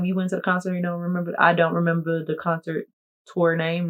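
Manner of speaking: ordinary talk, nothing marked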